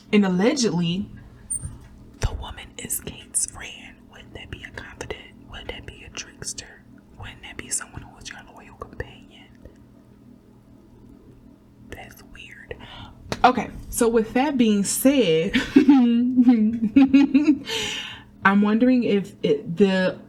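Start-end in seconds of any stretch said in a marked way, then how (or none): 2.2-9.5 very soft conspiratorial whisper. Real, not acted. Reader hinting to viewers about Kate's friend, whispered. 11.9-12.8 very soft, voiceless remark; whispered aside. Real, not acted. Reader reacting to her own gossip, whispered. 15.6-18.1 long, higher-pitched laugh. Real, not acted. Reader amused after her whispered gossip, laughing.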